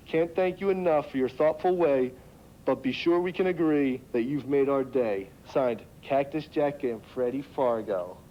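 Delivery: slow, deliberate reading of the card; nice and slow. Acted. Reads the thank-you card slowly to the redneck, drawn out. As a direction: spell it out slowly for a dim listener. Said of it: "I'll read it nice and slow".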